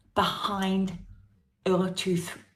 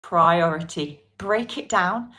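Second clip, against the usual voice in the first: normal talking voice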